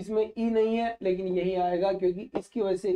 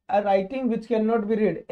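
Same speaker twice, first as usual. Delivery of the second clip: each word spelled out very slowly; slow dictation; much slower than usual. Shown as a demonstration. Teacher dictating a definition to students, very slow and deliberate. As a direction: read it slowly so students can write it down.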